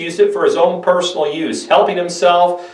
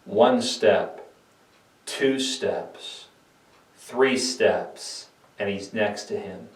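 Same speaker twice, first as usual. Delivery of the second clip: much softer, slow counted steps; hushed suspense; 4 semitones lower, 9 dB quieter, slower than usual. A narrator's reading. Narrator counting Judas's steps toward Jesus, hushed. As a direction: draw the listener in as he creeps closer.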